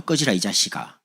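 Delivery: mock Gyeongsang brush-off; Gyeongsang dialect. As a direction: imitate a Gyeongsang speaker sending someone away. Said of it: "근데 경상도". (경상도 사투리로 내치듯)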